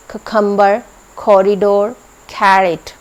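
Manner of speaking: cucumber as khucumber; कॉरिडोर and कैरेट with a puffed ख start; breathy kh on each c; aspirated c. Shown as a demonstration. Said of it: "वो भी ख की sound देते हैं".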